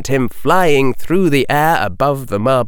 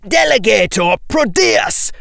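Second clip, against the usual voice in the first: shouting; 7 semitones higher than usual. Acted. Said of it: "Weasley twins shout".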